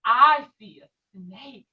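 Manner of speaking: loud, slow announcement of a snake; excited discovery. Shown as a demonstration. Teacher showing the class a pretend snake, loud and slow. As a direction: make the kids gasp at the snake. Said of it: "What do you see with your binoculars".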